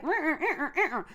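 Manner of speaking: wordless mock rural Southern twang; farming-country Southern accent. Vlogger imitating farming relatives' speech, thick wordless Southern twang. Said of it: "the farming community, is it, is it just another level".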